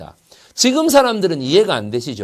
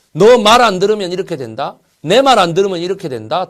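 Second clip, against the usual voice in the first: louder, raised-pitch mock threat; acted warning, forceful and raised; intimidating threat; 3 semitones higher, 6 dB louder than usual. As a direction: lay down the law to scare them. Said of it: "이런 식으로 겁을 주고".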